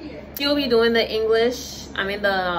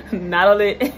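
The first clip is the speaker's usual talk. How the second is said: Natalie as Natli, squeezed; Liberian accent; 3 dB louder than usual. Shown as a demonstration. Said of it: "Liberian accent".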